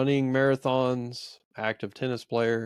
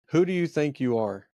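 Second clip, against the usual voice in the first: stern; 3 semitones higher than usual. Retold or imitated. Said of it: "sternly said".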